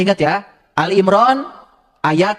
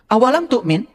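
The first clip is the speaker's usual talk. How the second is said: sok-sok Arab; 5 semitones higher than usual. Shown as a demonstration. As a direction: play at sounding like an Arab. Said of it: "Nah, gitu, lumayan kan?". (pura-pura logat Arab)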